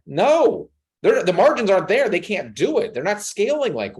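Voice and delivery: hammed-up boss turning reps down; mock owner. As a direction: lightly play owner Latuan refusing. Voicing owner Latuan's refusal.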